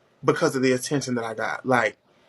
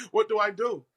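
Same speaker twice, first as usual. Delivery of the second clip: rising higher each time, fed up; building exasperation; 9 semitones higher than usual. Retold or imitated. Remembering the injustice, exasperated and rising. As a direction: pile on the frustration. Frustrated rhetorical repetition.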